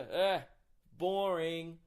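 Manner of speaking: lightly mocking, drawn-out jeer; mock heckle. Heckler interrupting a comedian, mock heckle. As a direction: imitate a bored heckler.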